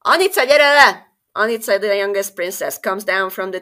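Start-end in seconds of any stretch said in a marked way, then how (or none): 0.1-1.0 loud, high call to the tower. Acted. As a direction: shout for the youngest to come down. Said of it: "king calls daughter in Hungarian".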